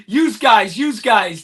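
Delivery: "yous guys" with a z ending on "yous"; local "yous guys". Shown as a demonstration. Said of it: "That's how we say it".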